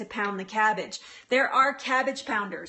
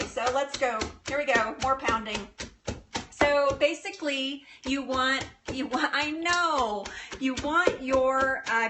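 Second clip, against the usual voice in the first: normal talking voice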